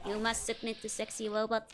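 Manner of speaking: lightly voiced sexy robot; a playful near-plain robot voice. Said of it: "This is my sexy robot voice".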